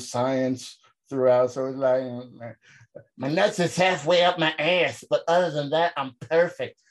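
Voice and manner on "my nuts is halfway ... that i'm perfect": put-on drunken voice. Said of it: "He's doing that drunken voice".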